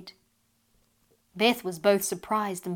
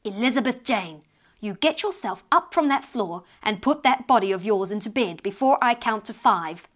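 stern mother using the full name; a stiff, sharp scolding mother; 5 dB louder than usual. Acted. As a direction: lay down the law to a dawdling child. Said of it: "her voice would become stiff and sharp".

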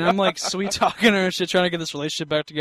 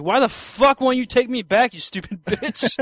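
higher mock angry outburst; mock angry rant; 5 semitones higher than usual. Retelling the text to his ex, higher mock anger. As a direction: rant like a confused half-awake ex.

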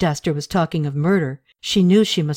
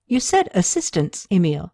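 lightly voiced surprise at the name; surprised; 2 semitones higher than usual.

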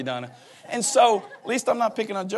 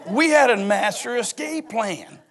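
ordinary delivery

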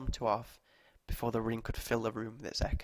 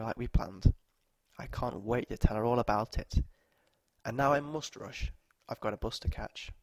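clear, strong voice; 7 dB louder than usual. Acted. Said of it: "her voice clear and strong and true".

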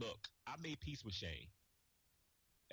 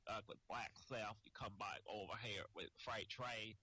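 slow, drawling wrestler promo impression; Freight Train; 2 semitones lower than usual. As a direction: ramble slowly through a mock threat. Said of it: "I got Freight Train for you".

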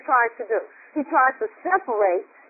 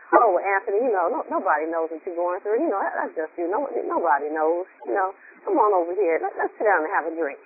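tempting devil; 6 semitones lower than usual. Retold or imitated. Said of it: "He tries to isolate us and say".

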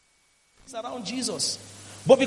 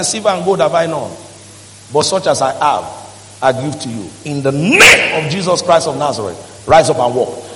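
louder, rising to a commanding call of healing; commanding Peter; 6 semitones lower, 4 dB louder than usual. Acted. Peter commands the lame man to walk, building to a loud call.

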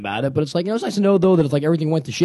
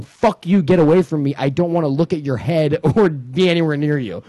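1 hostile rejection. Retold or imitated. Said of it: "look at me and basically go".

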